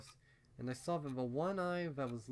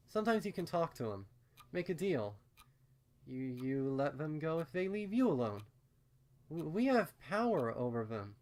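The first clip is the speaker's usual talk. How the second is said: higher, faster, eager rules; eager stammering pony; 5 semitones higher, 5 dB louder than usual. Acted. Ditsy explains the rules.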